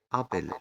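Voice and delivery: أبل opening on a short, open "a". Shown as a demonstration. Teacher showing pupils the first-letter A, short A in أبل. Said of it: "بتتنطق شورت A".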